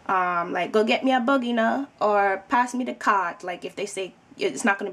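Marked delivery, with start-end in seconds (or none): 0.7-1.9 put-on Jamaican accent. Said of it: "doing the Jamaican accents". 2.5-3.4 light Jamaican lilt on pass me the cart; lightly voiced Jamaican, leaning on pass; Jamaican accent. Showing viewers a Jamaican saying it, light Jamaican accent. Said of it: "doing the Jamaican accents".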